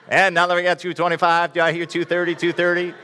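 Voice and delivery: lightly done auctioneer patter. Acted. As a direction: call the bids like an auction. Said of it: "doing an auctioneer thing".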